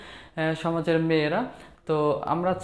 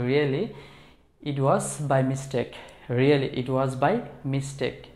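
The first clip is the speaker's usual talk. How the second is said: slow model phrase; 4 semitones lower, much slower than usual. Shown as a demonstration. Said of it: "সত্যি এটা ভুল করা হয়েছে".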